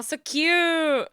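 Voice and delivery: high delighted "so cute" falling at the end; gushing. Real, not acted. Streamer agreeing with chat that it is cute, high gushing coo. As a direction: melt over how cute it is. Cooing over something cute.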